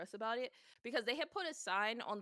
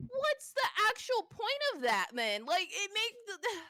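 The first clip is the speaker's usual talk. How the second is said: high, loud indignant protest; worked-up, high-pitched retort; retold exasperation; 10 semitones higher, 4 dB louder than usual. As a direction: act out exasperation, pitch shooting up. Retells exasperated reaction to cash rule.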